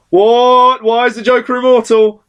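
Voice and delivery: high, loud disbelief; incredulous shock. Retold or imitated. Reader reacting to the Joker's return, shocked and high. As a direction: blurt it out, stunned. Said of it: "And you're like".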